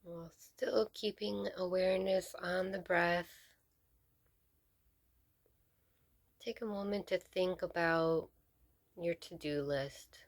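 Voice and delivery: measured meditation guide with long pauses between phrases; guided meditation. Real, not acted. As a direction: lead them gently into stillness, leaving space to breathe.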